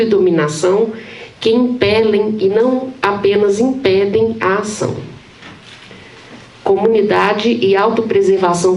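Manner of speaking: measured academic read-aloud, phrase by phrase; formal reading aloud. Acted. Professor presenting titled excerpts on the common, formal reading aloud. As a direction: read a dense theory text evenly to an audience.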